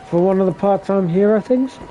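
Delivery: talking through a held-back yawn; stifling a yawn. Real, not acted. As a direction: fight the yawn while speaking. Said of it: "I'm trying not to yawn".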